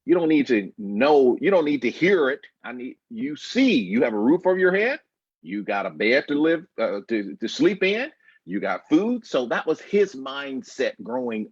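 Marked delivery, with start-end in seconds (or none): 0.0-9.2 lightly voiced old-school dad lecturing his boy; stern father. Son imitating his grandfather lecturing a boy, a hint of stern. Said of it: "that's what his dad is just like".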